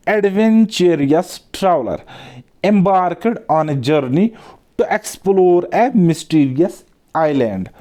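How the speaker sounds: reading the question very slowly and deliberately; slow reading aloud. Acted. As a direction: dictate each word for students to follow. (प्रश्न को धीरे-धीरे पढ़ना)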